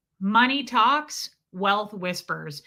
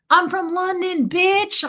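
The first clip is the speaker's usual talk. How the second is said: louder, higher cocky brag; mock boast; 9 semitones higher, 6 dB louder, slower than usual. Mocking men who brag, loud cocky boast. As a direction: brag it like a swaggering bloke.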